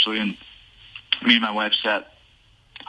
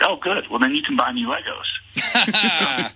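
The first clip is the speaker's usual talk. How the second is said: put-on slow, higher kid voice, lightly done; a hint of an eager little boy; imitating his son, higher; 4 semitones higher, much slower than usual. Dad voicing his son asking for Legos, slow and high. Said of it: "So he's like".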